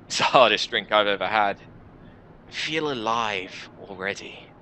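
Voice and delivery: measured first-person narration, set apart by pauses; story narration. Acted. Player character recounts drawing in humanity, story narration. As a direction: read it like a dark fantasy tale.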